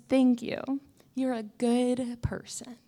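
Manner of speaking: shrimp dad voice. Retold or imitated. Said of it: "no voice".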